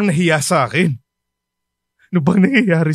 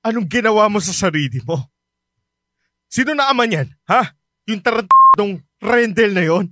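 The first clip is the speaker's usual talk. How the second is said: angry father; 4 semitones higher than usual. Acted. Father confronting his pregnant daughter, angry. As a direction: spit out the boyfriend's name.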